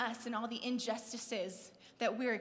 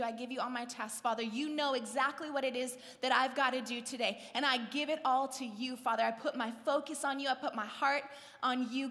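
fervent prayer; 3 dB louder than usual. Shown as a demonstration. Models a fervent morning prayer.

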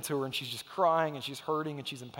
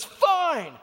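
high, loud huffy fine; stroppy child; 11 semitones higher, 7 dB louder than usual. Retold or imitated. Dad imitating his daughter storming off, huffy shout. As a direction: snap it like a toddler stomping off. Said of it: "stomping her feet".

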